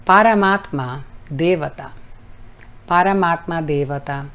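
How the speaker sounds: careful Sanskrit Paramatma Devata; measured teaching recitation; mantra recitation. Shown as a demonstration. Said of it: "desglosar para enseñar la pronunciación".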